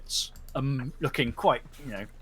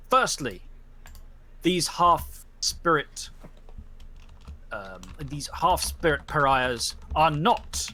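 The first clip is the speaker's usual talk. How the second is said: solemn judge's verdict. Acted. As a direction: pronounce judgement on the pack.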